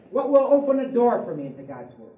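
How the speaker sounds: normal talking voice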